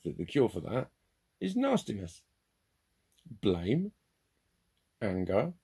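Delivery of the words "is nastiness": mock nasty. Real, not acted. Mocking the cure of nastiness.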